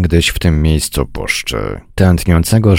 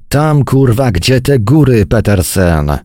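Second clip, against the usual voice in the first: higher, exasperated bark, moderately raised; irritated roar; 6 semitones higher than usual. A narrator's reading. Major pointing Petersen to the mountains, irritated bark. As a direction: snap at an obvious question. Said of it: "ryknął major".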